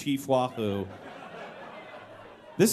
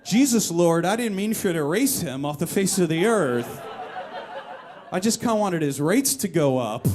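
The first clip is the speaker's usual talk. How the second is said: mock prayer; 4 dB louder than usual.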